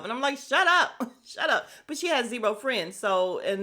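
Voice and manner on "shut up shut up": high, loud, then easing; half-joking raised-voice retort; exasperated mock outburst. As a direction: snap it high with playful exasperation. Exasperated reply to her self-talk.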